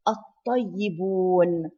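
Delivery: الطيبون with no L, doubled heavy T; silent lam. Shown as a demonstration. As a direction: merge the lam of الطيبون straight into ط. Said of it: "We did not pronounce the lam".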